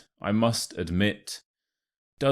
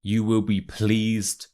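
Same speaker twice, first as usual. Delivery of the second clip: slow, careful teaching pronunciation; slow model phrase; 2 semitones higher, slower than usual. Shown as a demonstration. Teacher models the first expression for learners, slow and clear. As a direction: say it slowly, word by word, for learners. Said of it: "That's the first expression".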